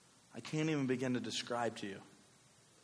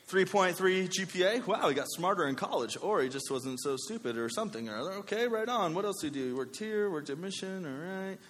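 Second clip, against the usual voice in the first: resume reviewer; 5 semitones higher than usual. Acted. Employer keeps reading resume, acted.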